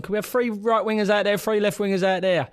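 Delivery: a hint of an Italian coach's instruction; imitating the manager. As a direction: call out orders across the pitch. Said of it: "Fabio's gone".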